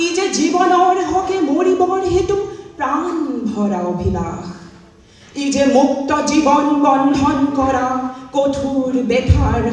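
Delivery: declaimed Assamese verse with measured phrasing; poetry recitation. Real, not acted. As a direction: recite it as a solemn poem. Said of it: "মই কবিতা আবৃত্তি কৰিম".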